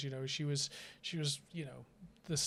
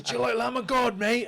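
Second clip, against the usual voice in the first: hint of a metalhead; 9 semitones higher, 9 dB louder than usual. Retold metalhead host.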